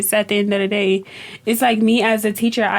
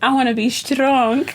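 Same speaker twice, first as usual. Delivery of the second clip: determined little student. Retold or imitated. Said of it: "One of my students was like".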